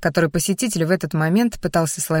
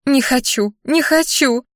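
high, thin squealing; 6 semitones higher, slower than usual. A narrator's reading. Unknown woman refuses in the nightmare, thin high squeal. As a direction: squeal like a frightened girl. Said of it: "тоненько визжал кто-то женским голосом".

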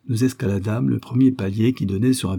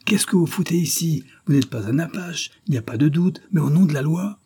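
raised, high-pitched exasperation; yelling, indignant; 7 semitones higher than usual. A narrator's reading. Commissioner to the unexpected old man, indignant outburst. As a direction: scold in a raised voice. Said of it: "hurla le commissaire".

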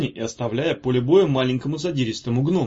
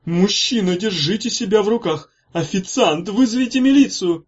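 high, loud squeal rising to panic; panicked high-pitched shout; squeaky cry for help; 7 semitones higher, 5 dB louder than usual. A narrator's reading. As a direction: squeak out a call for the police. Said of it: "пискнул Бурлаков".

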